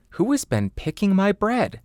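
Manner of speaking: high little dwarf voice; high indignant dwarf; third dwarf. Acted. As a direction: ask it high and put out.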